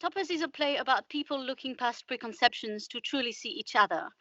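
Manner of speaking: measured radio presenter reading a blurb; scripted synopsis read. Acted. Host sums up the play for listeners, scripted synopsis read. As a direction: read out the play's summary with care.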